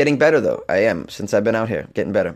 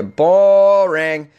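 like church bored you to death; exaggerated bored drawl; 6 semitones higher, 6 dB louder than usual. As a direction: groan the word out loud, higher. Complaining church is boring.

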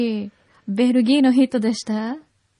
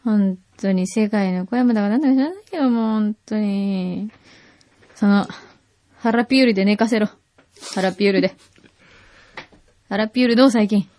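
put-on drunk act; 5 semitones lower than usual. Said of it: "酔っ払いの真似をするという罰ゲーム".

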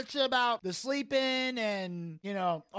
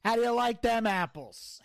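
movie quote; 3 semitones higher than usual. Retold or imitated. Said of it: "ask Nathan if he likes apples".

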